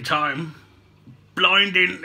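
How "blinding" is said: Cockney slip. Real, not acted. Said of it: "I keep going Cockney".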